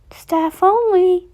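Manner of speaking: high, loud character voice; Chica's call. A narrator's reading. Chica calling past the hiding kids, high loud call. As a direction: call it out loudly, pitched well up. Chica calls out while searching.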